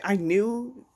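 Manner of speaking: climbing to a shrieking high "I knew it"; building from excited to shrill disbelief; rising excited scream. Retold or imitated. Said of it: "I was like".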